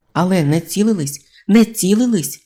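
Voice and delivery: protesting. A narrator's reading. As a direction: cry out in defence. Robber protesting loudly.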